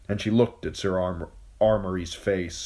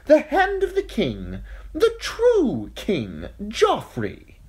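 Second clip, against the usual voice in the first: high, loud knight's call; herald calling out; 5 dB louder than usual. Acted. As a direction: proclaim it up at the gates. Herald calls up to the gates.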